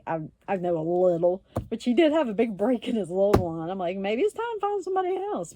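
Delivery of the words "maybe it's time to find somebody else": mock gentle advice. Her own advice to him.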